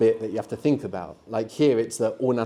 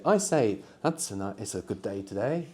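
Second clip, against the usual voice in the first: mock posh Englishman; 4 dB quieter than usual. Shown as a demonstration. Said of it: "You can say".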